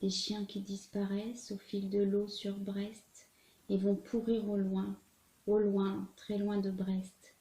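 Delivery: measured, earnest recital of a poem; sincere poem read aloud, with weighted pauses; poetry reading. A narrator's reading. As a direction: recite it in phrases, letting each image land. Reads a Prévert poem aloud.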